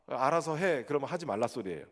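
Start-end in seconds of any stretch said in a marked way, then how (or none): 0.1-0.8 "알아서 해" tossed off, bothered and dismissive, really meaning don't; annoyed "whatever". Shown as a demonstration. Pastor demonstrating the annoyed Chungcheong "do as you like", dismissive. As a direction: brush them off with "알아서 해". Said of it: "좀 귀찮다".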